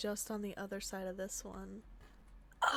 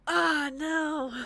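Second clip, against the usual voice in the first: loud, higher-pitched cry of dismay; 6 semitones higher, 10 dB louder than usual. Real, not acted. Player reacting to a failed run, dismayed cry. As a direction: cry out as the attempt fails. Game attempt fails.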